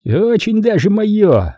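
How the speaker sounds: slow, high, gritted menace; said through teeth. Acted. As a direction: grind it out slowly. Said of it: "процедил Манфред".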